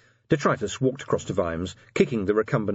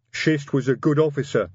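troll voice with a touch of rumble; rumbling troll; 6 semitones higher, 4 dB louder than usual. A narrator's reading. Troll officer regrets a lost colleague, rumbling. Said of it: "Detritus rumbled".

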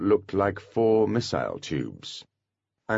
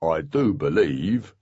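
proud pixie; slower than usual. A narrator's reading. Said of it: "very proud of himself".

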